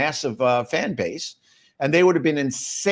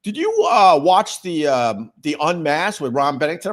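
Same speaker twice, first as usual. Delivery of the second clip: 1 eager fan; 4 semitones higher, 4 dB louder than usual. Retold or imitated. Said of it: "He goes".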